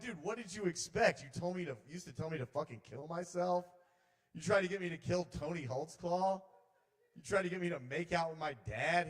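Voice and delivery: high, indignant questioning; indignant confrontation. Acted. Comedian confronts spirit about past urges, indignant high voice.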